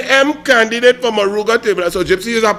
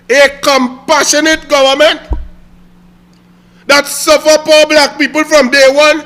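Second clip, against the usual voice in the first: louder, higher angry tirade; heated rant; 4 semitones higher, 4 dB louder than usual. Real, not acted. Railing at Gypsy over carnival cuts, heated. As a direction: build into a tirade.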